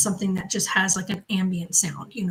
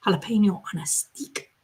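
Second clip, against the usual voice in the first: whisper. Real, not acted. Playful whisper to child.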